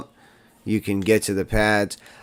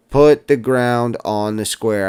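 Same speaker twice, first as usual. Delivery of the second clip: "Put the ground on the square" said slowly, each word deliberate; slow emphatic instruction; slower than usual. Shown as a demonstration. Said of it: "I can't stress this enough".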